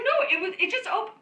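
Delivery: mock insistent mom. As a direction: insist it opened by itself.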